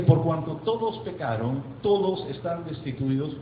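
slow scripture reading. Acted. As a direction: read the verse slowly and solemnly. Reading Bible verse slowly.

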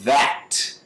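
"That" opening on a long buzz; vibrating TH. Shown as a demonstration. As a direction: draw out the voiced TH in "That". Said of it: "Olha como é que vibra".

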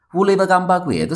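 ordinary delivery

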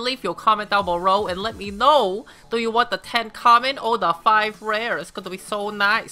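put-on Asian accent, lightly done; mock Asian accent voice. Shown as a demonstration. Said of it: "I go to sound like this".

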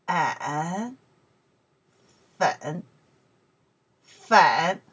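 粉 dipped low, then rising at the end; teacher sounding out 粉 in a low third tone. Shown as a demonstration. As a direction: model 粉 for learners with a clear low dip. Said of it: "third tones".

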